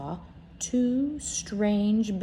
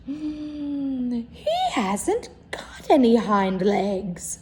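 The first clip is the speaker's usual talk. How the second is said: wild rabbit; 4 semitones higher, 3 dB louder, much slower than usual. Acted. Wild rabbit inspecting the toy.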